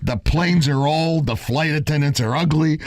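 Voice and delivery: put-on trash the airline in Italian Jewish accent. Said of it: "He said it with an Italian Jewish accent".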